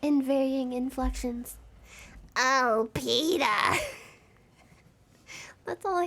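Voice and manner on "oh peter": put-on cartoon wife impression; slightly lowered cartoon mom voice; Lois. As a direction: whine to your husband as a cartoon wife. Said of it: "all five words are O and Peter".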